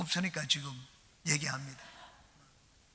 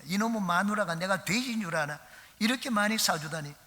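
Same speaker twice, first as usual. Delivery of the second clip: gruff complaining shout; 4 semitones higher than usual. Acted. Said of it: "막 큰 소리로 화를 내면서".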